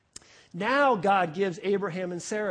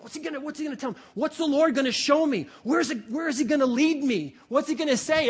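acting out keen expectancy, pitched up a little; eager anticipation; 3 semitones higher than usual. Preacher playing Abraham waiting on God, eagerly expectant. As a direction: wonder eagerly what is coming next. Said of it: "there's anticipation".

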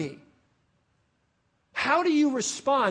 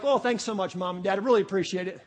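insincere thanks; 3 semitones lower, faster than usual. Acted. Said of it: "And you're like".

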